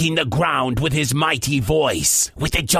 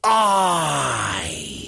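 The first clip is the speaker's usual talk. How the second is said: long, lower uneasy sigh of a word; gulping pirate; 4 semitones lower than usual. Acted. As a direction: gulp it out, a touch scared. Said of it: "gulped Pete".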